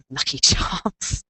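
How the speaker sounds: slow drawn-out Irish leprechaun lilt. Pretend. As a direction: stretch it out in a leprechaun's Irish accent. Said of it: "Irish leprechaun".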